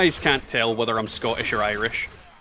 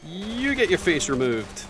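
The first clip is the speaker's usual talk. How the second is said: mock menace; 5 semitones higher than usual. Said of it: "repeated in a sillier voice".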